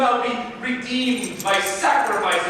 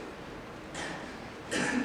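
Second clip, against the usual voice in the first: dying cough; 16 dB quieter than usual. Acted. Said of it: "Piero missteps and is stabbed".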